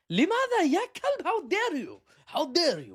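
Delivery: put-on high, loud indignant Arab-accented cry; outraged Arab accent. Emirati official denying Israeli claims, in an outraged Arab accent. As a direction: play the offended Emirati official shouting back. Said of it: "the United Arab Emirates was like".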